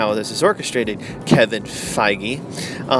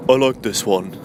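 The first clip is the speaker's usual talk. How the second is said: lightly voiced hero impression; a hint of a put-on hero voice; Thor; 3 semitones lower than usual. Thor looking at her in the trailer, light impression. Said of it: "Thor just looks at her and goes".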